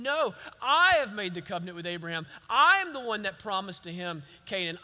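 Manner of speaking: lightly voiced God, building in pitch and emphasis; God declaring his covenant. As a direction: preach it as God, leaning on each "I". Voices God recounting his promises.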